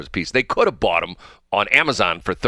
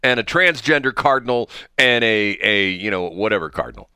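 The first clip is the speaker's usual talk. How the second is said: raised-pitch mock protest, trailing off; mock indignation; 3 semitones higher than usual. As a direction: imitate an indignant activist complaining. Acting out an indignant activist complaint.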